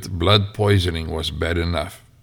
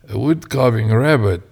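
incredulous; 5 semitones higher, 4 dB louder than usual. Acted. Elder repeats incredulously.

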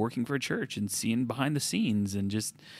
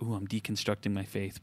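mock New York accent, lightly put on, a touch softer; bad New York accent; 6 dB quieter than usual. Mocking people who say they're deconstructing, in a bad New York accent. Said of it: "that was the worst New York accent".

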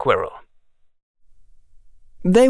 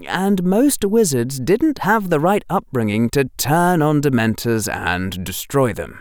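ordinary delivery, nothing marked

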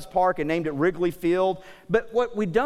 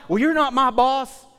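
put-on a touch higher, cheeky kid; mock sassy kid retort; kid sassing back; 5 semitones higher, 4 dB louder than usual. Kid sassing the parent, slightly higher and louder.

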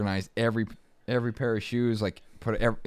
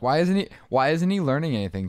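higher-pitched imitation of puzzled parents; mock puzzled parents; 7 semitones higher, 3 dB louder than usual. Parents asking speech teacher about son's progress, mock puzzled. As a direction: lightly mimic parents wanting answers.

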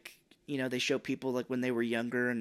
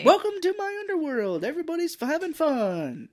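hammed-up sinister greeting; mock villain voice; 6 dB louder than usual. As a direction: drag it out like a creepy host. Voicing villain in movie.

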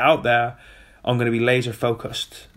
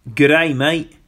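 bad Australian accent; 3 semitones higher, 6 dB louder than usual. Signing off to viewers in a deliberately bad Australian accent. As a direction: throw on your worst Australian accent, cheerfully. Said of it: "in my worst Australian accent".

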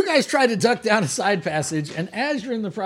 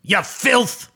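orc boss; 4 semitones higher, 5 dB louder, much slower than usual. Acted.

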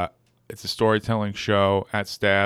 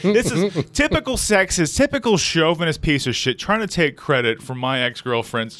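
hammed-up outrage, higher and louder; mock indignation; 5 semitones higher, 3 dB louder than usual. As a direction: play the offended feminist, overdone. Mock outrage at sexist claim.

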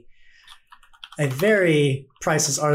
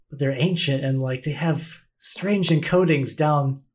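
eager scholar gushing, speeding up; enthusiastic NPC. Acted. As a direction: gush over the find. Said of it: "She's like".

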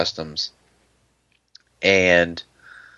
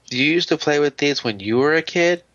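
lightly voiced little kid, higher pitch; imitated five-year-old; 6 semitones higher than usual. Imitating young cousin asking about the toys, higher kid voice. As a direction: ask like a curious small child, lightly imitated. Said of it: "Matthew, his name's five".

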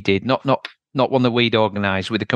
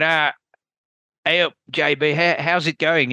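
a light mock Australian accent, raised in pitch; imitating a big Aussie guy in a loosely done Australian accent, last words slowed; 5 semitones higher than usual. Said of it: "in this Australian accent".

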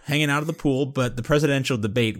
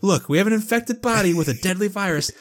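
lightly imitated insistent boss, pitched up; Tony; 6 semitones higher than usual. Host reads Tony's rebuke to Chloe, firm but not yelling. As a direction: insist without raising your voice, picking up pace. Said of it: "I read that in Tony's exact voice and, like, intonation".

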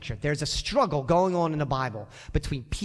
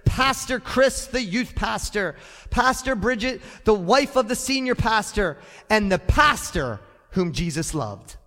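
playful mock narration of a Bible tale; mock storyteller. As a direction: read it like a grand mock scripture story. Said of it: "I would say it something like this".

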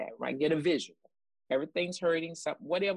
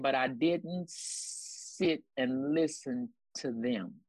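drawn out slowly, word by word; slow emphatic quote; much slower than usual. Shown as a demonstration. Preacher slowing down to drive the point home. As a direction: let each word land slowly. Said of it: "I'm gonna say that again".

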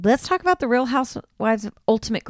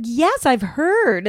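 haughty Dorinda; 4 semitones higher, 3 dB louder, much slower than usual. Retold or imitated. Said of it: "she's like".

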